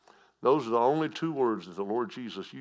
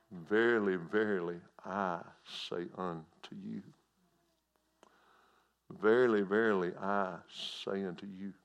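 solemn voice of the Lord. Retold or imitated. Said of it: "He would say things like this".

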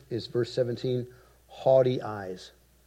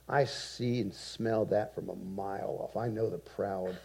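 low, hushed, fading to a whisper; hushed voice of God; 4 semitones lower, 11 dB quieter than usual. Retold or imitated. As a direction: speak it softly, almost whispered. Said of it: "And God says".

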